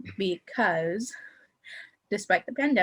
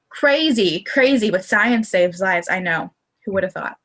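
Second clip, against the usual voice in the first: sarcastic; 7 dB louder than usual. Real, not acted. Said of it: "But I'm being a little sarcastic".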